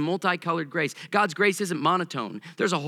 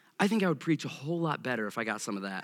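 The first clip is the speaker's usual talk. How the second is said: ordinary talk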